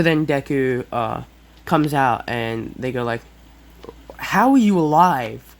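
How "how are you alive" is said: loud, drawn-out disbelief; high, stretched-out shocked outburst; Bakugo. Acted. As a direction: act out an incredulous, slow yell. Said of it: "Bakugo says".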